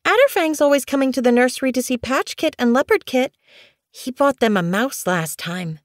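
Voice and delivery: high whine easing down at the end; whining kitten. A narrator's reading. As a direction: keep complaining in a high kit voice. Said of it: "Snow Kit whined".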